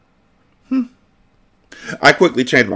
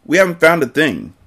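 higher-pitched grumble; complaining; 7 semitones higher than usual. A narrator's reading. Jordan tells Marianne they found nothing, complaining. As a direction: complain about the wasted effort. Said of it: "he complained".

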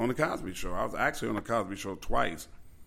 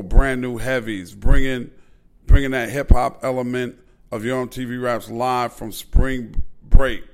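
louder, building hype roll call; hyped roll call; 3 semitones higher, 11 dB louder than usual. Real, not acted. Host hyping the show's legendary guests, loud building excitement. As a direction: build it up like an announcer.

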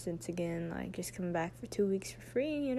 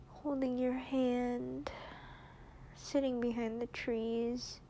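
soft tearful whisper; 4 semitones higher, 6 dB quieter than usual. Real, not acted. Tearful goodbye to partner.

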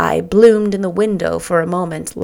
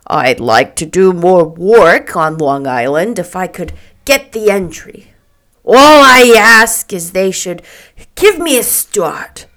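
eager photographer making his pitch; Mr. McKee, earnest; 5 dB louder than usual. Acted. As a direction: press your case, drawing out the ending.

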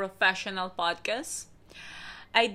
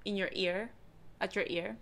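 close intimate voice; 8 dB quieter than usual. Real, not acted. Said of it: "talk to you a bit closer".

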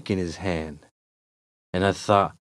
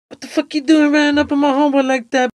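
fast, high-pitched yell; angry yell; 4 dB louder, faster than usual. Acted. Friend jumps at the guy threatening his homeboy, yelling. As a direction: yell it fast in defence of a pal. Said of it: "starts yelling at the guy".

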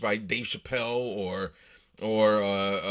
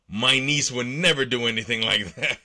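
mock-offended read, louder, half laughing; 4 dB louder than usual. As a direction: play the indignant uncle while barely holding back a laugh. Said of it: "the man replied in an offended voice".

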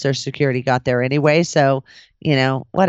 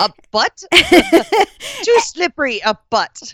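put-on riff in a silly Russian accent, cracking up; joking Russian accent broken by laughter; playfully imitated Russian voice; mock Russian accent; 12 semitones higher, 4 dB louder than usual. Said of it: "she was Russian".

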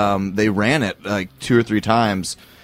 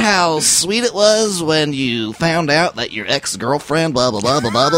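millennial voice; 5 semitones higher than usual. Pretend. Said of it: "the millennial voice".

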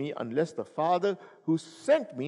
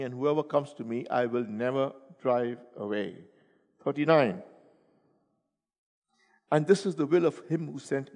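scripture reading. Acted. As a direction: read the verses gently to the congregation.

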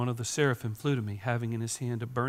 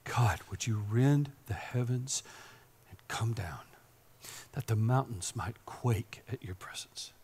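hushed whisper, breathy and intimate; whispered prayer. Acted. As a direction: pray it in a whisper.

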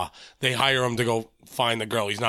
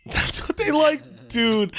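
slow, raised mock echo; 11 semitones higher, much slower than usual. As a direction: stretch it out, higher, teasing. Echoing friend's line mockingly.

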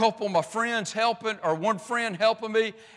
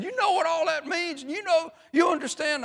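higher-pitched knowing question, lightly imitated; retold nudge-nudge question, pitched up; insinuating coworker; 8 semitones higher than usual. Coworker to roofer after suggestive remarks, knowing and insinuating.

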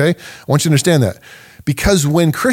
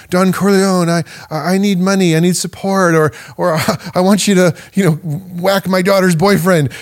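lightly voiced petitioner, pitched higher, begging; a hint of a poor man asking the Don for help; pleading petitioner; 5 semitones higher than usual. Supplicant begging Don Corleone for favors, lightly pleading.

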